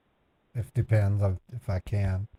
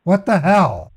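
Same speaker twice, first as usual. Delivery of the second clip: shocked; 3 semitones higher, 4 dB louder than usual. Real, not acted.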